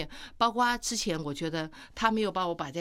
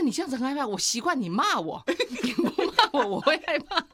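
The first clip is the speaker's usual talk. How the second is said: wife voicing her scared husband while laughing, higher; laughing mock fear; 5 semitones higher, 4 dB louder than usual.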